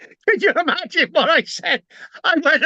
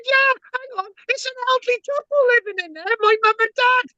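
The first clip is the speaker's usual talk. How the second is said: high, fast, louder retold protest; pleading with the officers, worked up; agitated protest; 10 semitones higher, 4 dB louder, faster than usual. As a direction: son protesting to police about his parents, agitated. Heated retelling to police.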